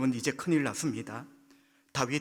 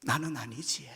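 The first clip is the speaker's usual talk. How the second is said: 1 Gyeongsang dialect; 3 dB quieter than usual. Shown as a demonstration. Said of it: "경상도 말로".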